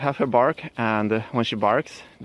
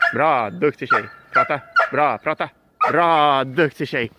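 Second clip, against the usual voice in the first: excited praise; 3 semitones higher, 6 dB louder than usual. Real, not acted. Praising dog after bark.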